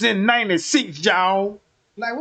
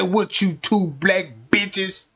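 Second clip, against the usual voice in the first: mock police officer; 3 semitones lower, slower than usual. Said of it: "looked me dead in my eyes and said".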